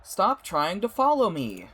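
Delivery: high, loud, angry warning; angry shout. Acted. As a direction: drive him off. Lila angry at pursuer.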